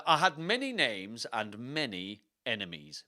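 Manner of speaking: lightly theatrical put-on accent; a touch of stagey accent; Richard the third. Richard recalling his many enemies, lightly put-on accent. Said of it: "fun to say in this accent".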